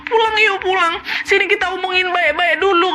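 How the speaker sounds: high, tearful sobbing plea; wife crying on the phone to her husband. Retold or imitated. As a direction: cry through the words, begging him home. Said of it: "Tenangis-nangis istri aku di situ".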